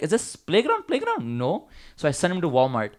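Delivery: squeaky mock South Asian boss asking about the playground; mock brown accent. Owner telling how he fired his son, in a mock South Asian accent. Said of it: "I'm just gonna do a brown accent".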